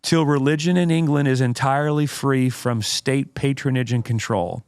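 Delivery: slow, deliberate oratorical reading; dramatic quote reading. Acted. Host reads Spurgeon's quote to co-host, dramatic oratory. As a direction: read it out with weighty pauses.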